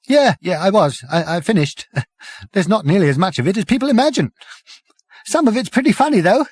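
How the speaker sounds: high voice breaking into laughter; giggly Prack. A narrator's reading. Prack to the visitors, high and giggling. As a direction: giggle through the words.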